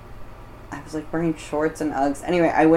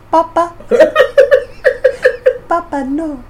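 put-on anguished child; 12 semitones higher, 7 dB louder than usual. Joking as 9/11 hijacker's child.

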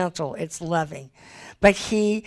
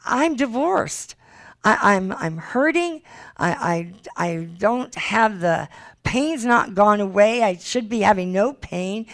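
higher-pitched, halting protest of hurt; recalled hurt, voice pitched up; retold anguished protest; 3 semitones higher than usual. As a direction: plead in disbelief, stumbling over the words. Retelling her anguished protest to God.

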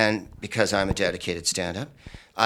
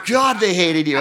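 singsong tease; 7 semitones higher, 3 dB louder than usual. Retold or imitated. Friend teasing, singsong.

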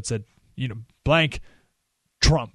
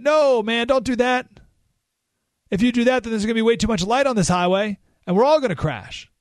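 higher-pitched, insistent retold warning; urgent pleading; 7 semitones higher than usual. MLK warning his brother at the wheel, urgent pleading. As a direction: plead with the driver to stop.

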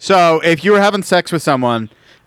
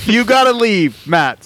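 mock urgent shout; 10 semitones higher, 4 dB louder, slower than usual.

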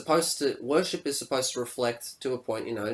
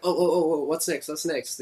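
higher, excited chasing after novelty; mock eager impatience; 5 semitones higher, 4 dB louder than usual. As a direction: imitate an easily distracted crowd. Mimics short attention span.

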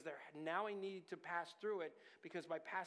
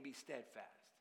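quiet voice of God; 5 semitones lower, 7 dB quieter, slower than usual. Shown as a demonstration. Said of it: "he's saying".

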